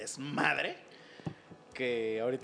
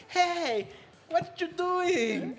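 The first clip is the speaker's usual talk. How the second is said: high, slow, sunny American cheer; upbeat optimistic dub voice; 14 semitones higher, 4 dB louder, much slower than usual. Retold or imitated. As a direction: stretch it out, overly chipper. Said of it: "siempre hablan así como de".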